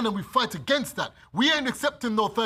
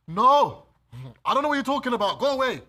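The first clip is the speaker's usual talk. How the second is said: loud, higher panicked denial; mock Peter denial; 3 semitones higher, 4 dB louder than usual. Preacher voicing Peter, loud scared denial. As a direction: brush them off like Peter caught out. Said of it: "That's Peter".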